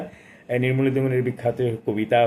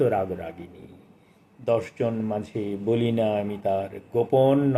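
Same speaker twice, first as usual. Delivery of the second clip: slow, measured poetry reading with lingering lines; poem recitation; slower than usual. Acted. Reviewer reciting the poet's sonnet to listeners, slow and lyrical. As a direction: recite it like a sonnet to a hushed hall.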